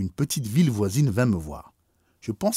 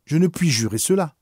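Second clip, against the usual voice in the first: tearful cry; 7 semitones higher, 5 dB louder than usual. A narrator's reading. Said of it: "fondant en larmes ... elle s'écria".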